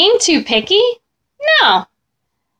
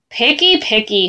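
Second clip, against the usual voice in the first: 1 complaining. Acted. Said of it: "Herbert complained".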